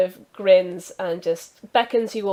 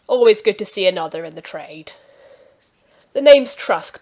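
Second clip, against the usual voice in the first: cheery healer; 8 dB louder than usual. Acted. NPC doctor introduces himself.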